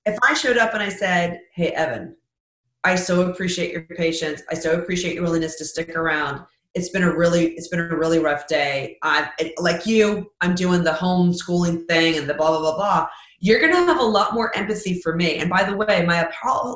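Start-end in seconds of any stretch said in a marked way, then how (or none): 1.5-13.1 sincere gracious greeting. Retold or imitated. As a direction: thank him gently before anything else. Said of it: "will come across far more sincere".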